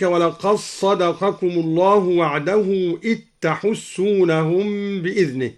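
ولقد صدقكم as "walaqas-sadaqakum", إذ تحسونهم as "it-tahussunahum"; idgham. Shown as a demonstration. Teacher demonstrates merging in ولقد صدقكم, dal becoming doubled s. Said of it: "الدال في الصاد أيضًا".

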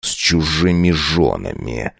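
low, slow, grinding; through gritted teeth. Acted. Count answering servant, low through gritted teeth. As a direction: force it out through clenched teeth. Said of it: "проскрипел зубами".

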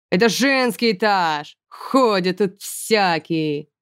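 slow, gruff ogress scolding; ogre commandant. A narrator's reading. Ogre matron scolding a passing boy, slow and gruff. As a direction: grumble like a monster matron.

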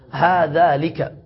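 هذلك said slowly and marked as incorrect; slow wrong form. Shown as a demonstration. Teacher showing the disallowed form, slowly. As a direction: draw out هذلك as the form not to use. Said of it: "ولا يصح".

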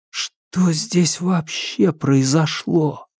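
slow, set-apart thinking voice; inner thought. Acted. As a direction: think it slowly to himself. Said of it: "думал Томас".

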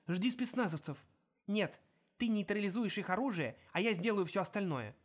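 whisper-urgent orders over radio; tense radio exchange. Acted. Earpiece dialogue Juliet and Holly.

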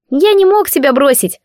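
high little voice of an air spirit; spirit's squeaky voice. A narrator's reading. Spirit explains his disguise in a high little voice. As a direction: explain earnestly as Siv.

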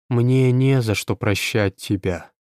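muffled into a chest, slow; face in someone's chest. Acted. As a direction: speak with face pressed into a chest. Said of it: "уткнувшись носом в грудь".

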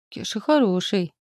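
offended. A narrator's reading. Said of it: "обиделся Птах".

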